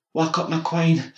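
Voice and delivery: loud, high, slow call; sharp waking call. A narrator's reading. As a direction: rouse her sharply from the doorway. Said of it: "the voice pecked in the doorway".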